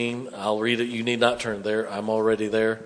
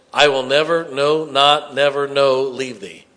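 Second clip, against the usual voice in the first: each of "never, no, not" hammered separately; stacked negatives punched one by one; five-time negative stressed; 5 dB louder than usual. Shown as a demonstration. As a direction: beat out every negative in "I will never, no, not, never, no, leave thee". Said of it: "it's a five-time negative".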